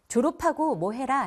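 졸업하고 with a strong 파 sound; aspirated linking. Shown as a demonstration. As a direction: say 졸업하고 as 조러파고. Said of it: "할 때". (졸업하고를 거센소리 파로)

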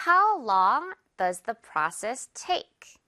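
very slow, each word spaced out; slow model sentence. Shown as a demonstration. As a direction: teach the sentence slowly. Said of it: "그 절차 얼마나 소요돼".

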